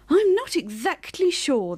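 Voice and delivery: unsure, swinging intonation; shrugging uncertainty. A narrator's reading. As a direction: shrug it off with your voice. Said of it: "the bear shrugged".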